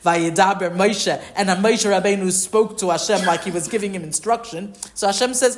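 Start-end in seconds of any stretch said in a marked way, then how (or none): 0.0-1.2 louder, slowed quote, mildly stern; harsh. Retold or imitated. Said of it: "it said it very harshly".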